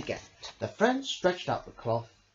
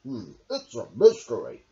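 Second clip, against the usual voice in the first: frowning; 4 semitones lower, 7 dB louder than usual. Acted. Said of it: "frowned Badger".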